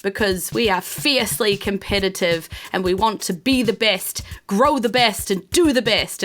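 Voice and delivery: high, grand welcoming speech; pompous host speech. Acted. Host to the crowd, grand and high-pitched. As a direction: proclaim it like a proud host. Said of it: "So he says".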